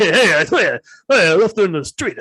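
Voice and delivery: a hint of Rodney Dangerfield confessing; mild Dangerfield-style killer confession. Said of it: "Like the Rodney Dangerfield killer".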